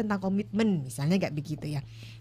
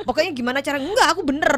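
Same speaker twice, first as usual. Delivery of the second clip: defensive denial; 5 semitones higher, 4 dB louder than usual. Retold or imitated. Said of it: "langsung kayaknya bikin tembok".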